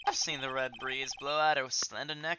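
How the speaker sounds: a hint of a Southern cowboy accent. The speaker teases the defense in a light Southern accent. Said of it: "I don't know whether to do a more southern accent".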